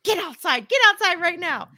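husband yelling at dog. Retold or imitated. Husband yells at the dog to get outside, loud command. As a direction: bark it out at the dog. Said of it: "my husband is yelling at the dog".

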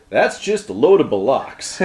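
lightly put-on Western accent; really Western accent. Shown as a demonstration. Co-host trying out bollocks, really Western accent. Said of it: "Let's say it really Western".

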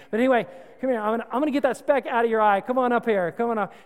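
a hint of a pushy, self-satisfied helper; smug Mister Plank Eye. Preacher mocks the man with a plank in his eye, eager and pushy. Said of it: "Mister Plank Eye is saying".

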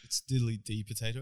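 put-on soft, silly Irish accent; mock Irish accent. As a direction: toss off a parody Irish phrase softly. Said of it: "do your Irish accent".

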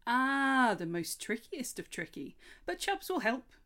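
an excited fawn proclaiming his nature; lightly voiced cheerful fawn; chirruping fawn. A narrator's reading.

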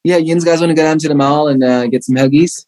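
lightly played yinzer Pittsburgh accent, a bit quick; hint of a thick Pittsburgh accent for laughs. Shown as a demonstration. Showing the hosts how Pittsburgh locals talk, Pittsburgh accent. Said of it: "that's how they talk".

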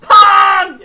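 loud, high burst of joy; excited shout. Acted. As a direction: shout it out gleefully. Excited call-out of game name.

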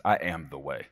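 low, level statement of authority; assured declaration. Acted. Preacher quoting how Jesus talks, assured and low. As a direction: state it calmly as settled fact. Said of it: "I love it when he talks like this".

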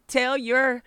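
loud, high, exasperated snap at her daughter; mother snapping back at upset daughter, loud and angry; angry retort. Retold or imitated. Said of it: "And I was mad".

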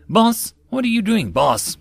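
high, loud alarmed cry; panicked squeal. A narrator's reading. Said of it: "the A V I squealed".

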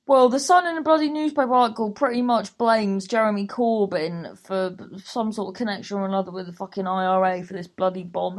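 loud, fast angry rant; swearing tirade. Real, not acted. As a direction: rant hard at the tabloid. Ranting about newspaper blaming Corbyn.

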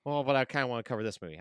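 rushed, eager self-quote. Retold or imitated. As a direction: blurt it out quickly, keen. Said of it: "it was just like".

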